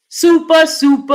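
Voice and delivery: loud excited super, super. Real, not acted. Streamer excited to her chat about a donation, loud. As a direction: hype up the big donation.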